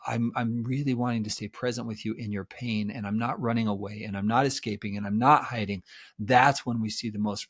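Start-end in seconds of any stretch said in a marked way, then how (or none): 0.1-5.8 soft, low, earnest commitment; steady reassurance. Shown as a demonstration. Therapist voicing a partner staying present in the pain, softly. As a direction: promise you're staying, gently. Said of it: "the third and the fourth and the fifth wave of".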